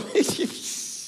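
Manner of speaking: high, voiceless mocking snicker; mocking laugh. Preacher shows God laughing at the nations, mocking snicker. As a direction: act out God's derisive snicker. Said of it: "y Dios está diciendo".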